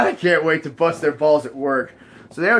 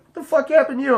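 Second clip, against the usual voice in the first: much higher mock shocked question; shocked coworkers; 11 semitones higher, 3 dB louder, faster than usual. Coworkers reacting to his wrecked voice.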